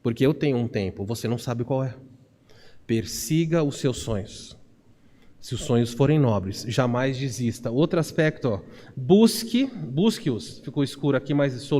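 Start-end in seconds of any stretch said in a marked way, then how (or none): 0.0-7.7 low, softened voice of God encouraging; quiet, steady divine encouragement; God's reassurance. Retold or imitated. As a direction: speak lower and gently, as God urging perseverance. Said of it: "E Deus diz pra você".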